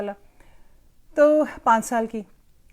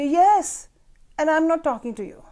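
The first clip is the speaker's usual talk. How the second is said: put-on sulky child; 5 semitones higher, 6 dB louder, much slower than usual. Sulking grandchild answers grandma.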